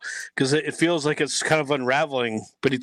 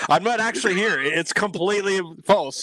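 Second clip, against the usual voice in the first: a higher, put-on voice, playing a fake projection; mock hologram voice; 6 semitones higher than usual. Joking to the chat that he's only a hologram, mock hologram voice. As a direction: pretend to be a glitchy hologram, half joking.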